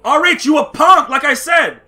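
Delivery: telling R H off straight to his face; angry call-out. Real, not acted. Calling out R H angrily.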